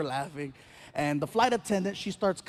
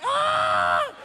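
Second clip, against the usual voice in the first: high startled shriek; shrill mock scream. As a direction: let out a sudden high yelp. Shocked reaction in story.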